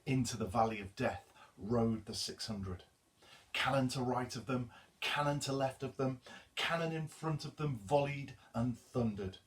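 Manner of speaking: measured poetry reading; poem recital. Acted. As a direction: recite it with solemn weight. Reads the poem aloud.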